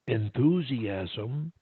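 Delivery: "enthusiasm" drawn out slowly, syllable by syllable; over-articulated. Shown as a demonstration. Coach listing what to add, "enthusiasm" slowly over-articulated. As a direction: stretch each syllable of "enthusiasm".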